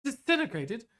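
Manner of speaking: high surprised exclaim. Acted. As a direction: gasp it out in disbelief. Surprised gasp at disintegration.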